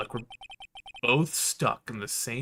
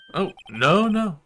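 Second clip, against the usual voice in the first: flustered bellboy; 5 semitones higher, 5 dB louder than usual. Acted. Bellboy waving off apology.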